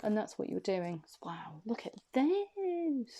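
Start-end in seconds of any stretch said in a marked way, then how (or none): 1.2-3.2 whisper. Real, not acted. Tarot reader reacting to cards.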